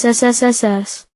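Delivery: long hissing S; hissed S sounds. Shown as a demonstration. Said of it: "say the sound S".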